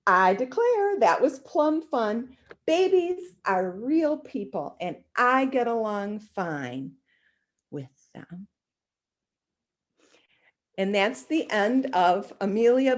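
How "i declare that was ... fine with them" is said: slow, lightly voiced Southern maid. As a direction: drawl it out contentedly. Amelia Bedelia content after visit.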